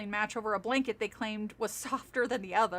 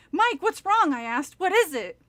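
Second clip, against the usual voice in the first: worried; 4 semitones higher, 5 dB louder than usual. Acted. Worried questions in story.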